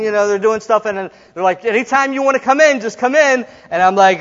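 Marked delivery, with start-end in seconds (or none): 1.6-3.5 higher, quick prompting; urging cue. Retold or imitated. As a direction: imitate a pianist cueing the singer. Pianist cueing the nervous singer.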